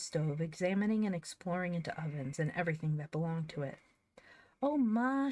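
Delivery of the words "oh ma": high, bright call to Ma; calling out, thrilled; excited call. Acted. Girl running to her mother, calling out high and thrilled.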